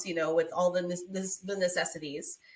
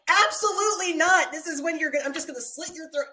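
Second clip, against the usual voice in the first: high-pitched mock outrage, loud at the start; outraged refusal; 9 semitones higher, 5 dB louder, faster than usual. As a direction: act out an appalled, emphatic no. Acted outraged reply to the villain.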